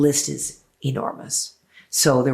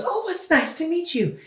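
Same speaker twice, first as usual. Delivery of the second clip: imitating a singer. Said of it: "And he goes".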